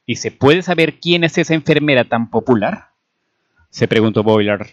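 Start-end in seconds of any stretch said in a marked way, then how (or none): 0.1-2.9 higher-pitched, testy question; irritated. A narrator's reading. Major asking about the popular nurse, irritated. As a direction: demand to know, mildly irked.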